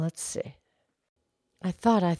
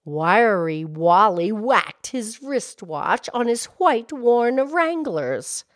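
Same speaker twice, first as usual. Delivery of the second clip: tongue twister demo; 2 semitones higher, slower than usual. Shown as a demonstration. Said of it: "here's one".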